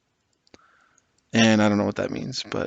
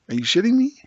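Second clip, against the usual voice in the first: much higher, louder, outraged question; outraged disbelief; 12 semitones higher, 5 dB louder, faster than usual. Real, not acted. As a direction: blurt it out, truly fed up. Outraged at unit's points cost.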